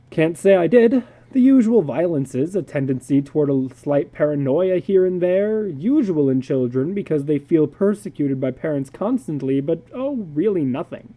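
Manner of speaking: a hint of an easygoing psychologist; breezy psychologist. Psychologist David to George, a lightly voiced breezy reply.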